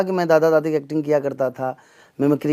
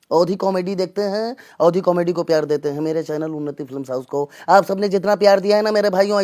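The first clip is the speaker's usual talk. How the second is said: Nana Patekar; 3 semitones higher than usual. Acted. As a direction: do an impression of the actor addressing fans, pitched up in bursts. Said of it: "मैं आपको सुना देता हूँ नाना पाटेकर साहब को". (अभिनेता की नकल वाली आवाज़)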